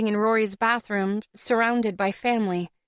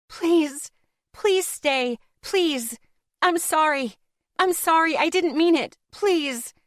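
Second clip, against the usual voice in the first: tearful pleading; 6 semitones higher, slower than usual. A narrator's reading. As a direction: beg him to stay, almost sobbing. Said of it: "Tara continued to plead through the tears".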